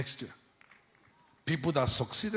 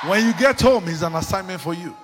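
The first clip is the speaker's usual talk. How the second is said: loud, higher charge to the church; preaching at full force; 3 semitones higher, 11 dB louder than usual. Real, not acted. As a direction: drive the homework home. Preacher charging congregation loudly.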